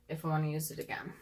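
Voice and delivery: quick whispered aside; whispering. Real, not acted. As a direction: whisper it to yourself. Repeats phrase, then whispers it.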